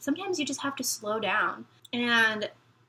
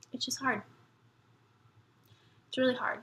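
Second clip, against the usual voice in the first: quiet, tearful; real quiet crying, softer; crying softly; 3 semitones higher, 5 dB quieter, faster than usual. Real, not acted. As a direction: let the tears take the words. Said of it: "I'm crying".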